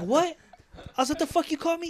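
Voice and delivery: like someone just insulted you; outraged. Retold or imitated. Confronting the customer who called him a barista, outraged and loud.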